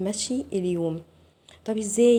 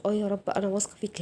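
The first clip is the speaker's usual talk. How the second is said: quick, offhand claim of trust; superficial trust; 3 dB quieter, much faster than usual. Shown as a demonstration. Coach showing viewers how not to trust God, hurried lip service. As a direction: rattle it off without conviction. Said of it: "مش ... لأ، أنا عايزاكي تكوني واثقة من جوه بجد".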